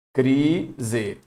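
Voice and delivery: "crise" split as cri-zê; syllable by syllable. Shown as a demonstration. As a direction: say "crise" in two separate syllables. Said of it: "encontro consonantal".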